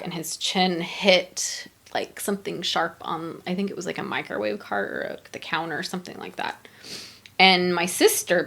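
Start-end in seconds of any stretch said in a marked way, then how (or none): 0.0-4.9 hushed telling. Real, not acted. Telling the podcast host how dad fell, in a whisper. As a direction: drop to a whisper at the worst part. Describing dad's fatal fall.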